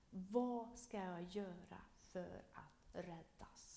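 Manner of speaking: a slow, lightly voiced pleading question; pleading jailer. Preacher voicing the jailer's slow plea to Paul. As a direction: draw the question out as a humbled jailer.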